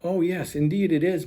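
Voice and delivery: high bright-voiced Mistletoe; sweet high character voice; cheerful Mistletoe. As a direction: chirp it as the eager friend.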